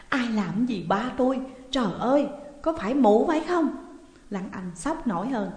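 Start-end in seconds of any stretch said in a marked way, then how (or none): 0.1-4.0 raised cry climbing into accusation; distressed shout. A narrator's reading. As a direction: cry out, then turn on the culprit. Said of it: "cô hét lên". (hét lên thảng thốt)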